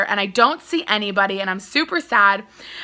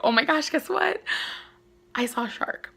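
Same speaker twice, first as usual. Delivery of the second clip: excited news; 4 semitones higher, 6 dB quieter than usual. Retold or imitated. Bursting to tell family about shark.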